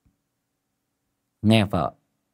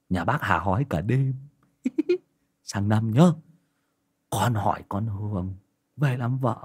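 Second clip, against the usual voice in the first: cheeky son. Acted. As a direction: boast like a lad proud of his girl. Son Vương voiced.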